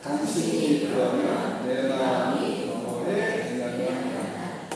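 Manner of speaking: slow, deliberate recital of the pattern; teacher modeling an I-message; slow template demo. Shown as a demonstration. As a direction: spell the formula out slowly. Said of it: "바꿔서 해보겠습니다".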